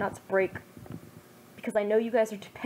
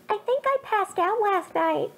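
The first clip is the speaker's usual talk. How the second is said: mock anime boy; hammed-up Naruto voice; 11 semitones higher than usual. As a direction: play the groggy hero, pitched up. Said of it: "Naruto answered".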